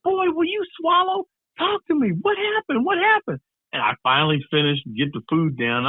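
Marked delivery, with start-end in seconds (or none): 0.0-3.4 very high, frantic demanding; exasperated mom voice, pitched way up; impatient mom. Retold or imitated. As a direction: imitate a mother pressing her kid for answers. Impatient mom presses chewing son.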